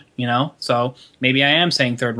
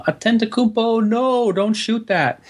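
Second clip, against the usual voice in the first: higher, laughing mock play-by-play; mock announcer call; 7 semitones higher, slower than usual. Cohost mocking the catchphrase for Bucks fans, laughing announcer. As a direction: ham up a groaning announcer while laughing. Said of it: "He was like".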